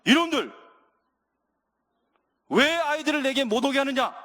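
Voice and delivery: indignant, acted scolding outburst. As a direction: act out a master telling off his disciples. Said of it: "제자들을 야단치는 거예요".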